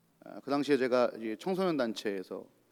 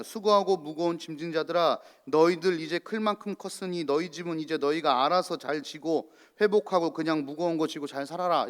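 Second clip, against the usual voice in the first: brisk, slightly louder, brushing people off; mock cold dismissal; 3 dB louder than usual. Preacher mocking a false God who sends the weary away, dismissive. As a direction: read it like a God who tells you to manage alone. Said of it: "이렇게 얘기 안 하시잖아요".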